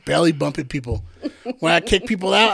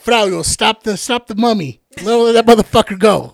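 raised call to a friend across the crowd; retold call across a packed bar; 3 semitones higher, 5 dB louder than usual. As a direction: shout over the crowd to stop him. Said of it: "I was like".

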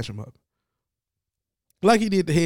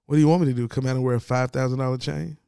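Jared Allen fashion; 2 semitones lower, 3 dB louder, faster than usual. Retold or imitated. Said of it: "in the most Jared Allen fashion".

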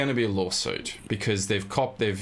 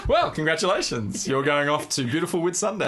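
higher, machine-like host announcement; computer voice; 6 semitones higher than usual. Retold or imitated. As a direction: announce the prize like a robot host. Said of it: "Dexter from Perfect Match".

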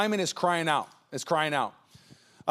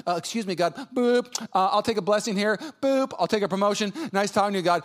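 casual intercom prayer. Retold or imitated. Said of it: "hitting the intercom to the butler".

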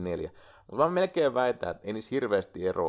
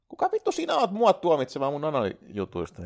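higher, playful telling-off; hammed-up defensive outburst; mock indignation; 5 semitones higher, 5 dB louder than usual. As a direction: snap back at an imagined critic, half joking. Mock retort to imagined judge.

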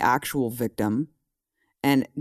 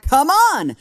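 much higher, louder scoffing come on; mock disbelief; 12 semitones higher, 7 dB louder than usual. News people mocked as scoffing, exasperated disbelief. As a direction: scoff like a jaded newsroom. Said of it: "And they're like".

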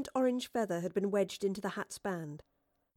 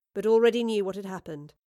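ordinary delivery

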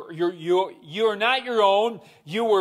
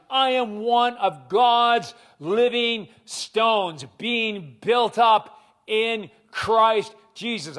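preaching declaration; slower than usual. Real, not acted.

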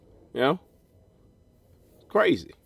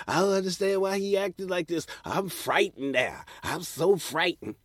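mock frightened; 5 semitones higher, 3 dB quieter than usual. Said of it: "when they start bothering you".

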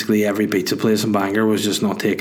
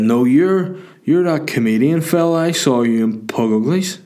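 higher-pitched imitation of a drunk fan; drunk young fella; 4 semitones higher than usual. Drunk fella recognising a comedian in the queue, put-on voice. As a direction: put on an eager punter's voice. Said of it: "there's this young fella behind me".

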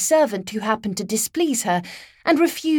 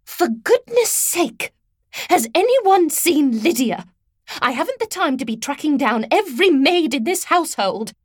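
high, sharp, impatient housekeeper; thin reedy voice; 5 semitones higher than usual. A narrator's reading. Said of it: "thin, reedy voice snapped".

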